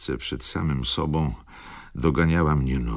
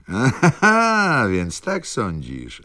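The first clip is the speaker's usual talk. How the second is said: much higher, exclaiming with a laugh; 8 semitones higher, 5 dB louder, slower than usual. A narrator's reading. Wokulski laughing off Rzecki's guess, exclaiming. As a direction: burst out, amused and loud. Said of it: "zawołał".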